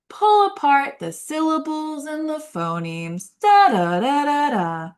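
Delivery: high, bouncy da da da; sing-song with syllable beats. Shown as a demonstration. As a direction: pull apart each syllable in a sing-song. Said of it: "talk like this".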